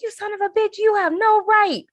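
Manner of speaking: high, loud hammed-up rage; mock furious outburst. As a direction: bellow it like the grieving father. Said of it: "He was like".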